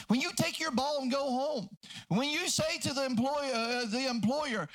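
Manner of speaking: driving pulpit delivery; fervent preaching. Acted. Preaches at full force.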